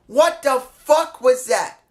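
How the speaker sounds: slow, stunned disbelief before the outburst; incredulous. Real, not acted. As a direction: drag it out, still holding back. Repeats his disbelief, slower.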